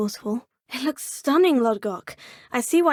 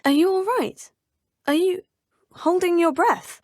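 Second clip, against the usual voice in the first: higher and louder, worried; urgent, concerned cry; alarmed concern; 6 semitones higher, 6 dB louder than usual. Acted. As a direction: call out in sudden alarm. Alarmed at a struggling friend.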